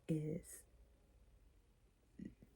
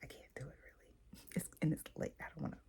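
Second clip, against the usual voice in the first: shrinking, trailing off; 3 semitones lower, 10 dB quieter, faster than usual. Shown as a demonstration. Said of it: "from confident and sure to I'm annoyed".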